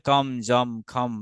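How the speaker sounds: "কম, জম, খম" each closed on m; anusvara as m. Shown as a demonstration. Teacher giving examples of the rule, "কম, জম, খম" ending in m. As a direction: hum the final m of "কম, জম, খম". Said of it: "এখানে ম sound হবে".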